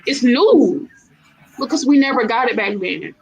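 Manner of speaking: fiery trash-talk promo; wrestling promo. Pretend. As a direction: call out a rival like a heel wrestler. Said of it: "I'm about to cut a promo".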